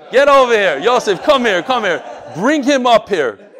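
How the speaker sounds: loud, insistent summons to the front; calling out. Real, not acted. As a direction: call them up with force. Calling people up to join him.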